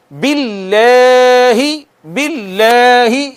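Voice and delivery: باللہ slow with thin lam, lips drawn back; thin billah. Shown as a demonstration. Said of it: "ایک الف جتنا کھینچنا ہے". (باللہ باریک، آہستہ)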